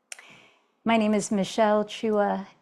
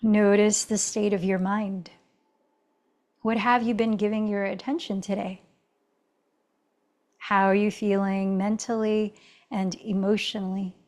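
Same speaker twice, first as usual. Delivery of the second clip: calm, even yoga-teacher guidance with long pauses; settled meditation-leader voice; guided meditation. Real, not acted. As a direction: guide them inward, unhurried, leaving space between phrases. Leads a meditative check-in.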